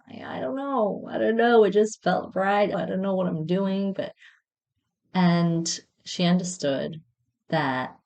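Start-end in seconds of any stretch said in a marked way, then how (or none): 0.1-1.1 flustered. Retold or imitated. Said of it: "And it's like". 1.1-3.9 flustered. Retold or imitated. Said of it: "And it's like".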